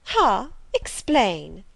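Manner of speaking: a grand lady giving an order; commanding. Acted. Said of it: "commanded the lady".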